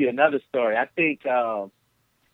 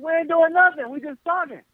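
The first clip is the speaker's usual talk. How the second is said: Trey denying; 13 semitones higher than usual. Retold or imitated.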